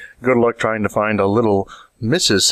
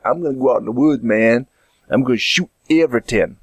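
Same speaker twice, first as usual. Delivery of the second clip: lightly put-on odd Canadian-Jamaican accent; weird accent. Would-be hunter announces plans for the woods, odd Canadian-Jamaican accent. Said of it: "I have just a weird accent".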